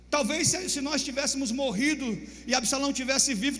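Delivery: a general scolding his king; stern rebuke. Acted. Joabe repreende o rei. (repreensão firme de Joabe)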